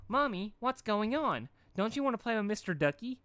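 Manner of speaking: put-on a small child tugging at mum; little filly voice. A narrator's reading. Little filly Dinky asks mother.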